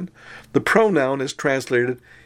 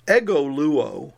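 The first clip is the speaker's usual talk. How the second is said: slow ego luo with ego leaned on, rising; stress on ego; slower than usual. Shown as a demonstration. Teacher showing students the emphatic ego, stressed. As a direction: ego luo, hitting ego to show the added pronoun. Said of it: "ego is added for emphasis".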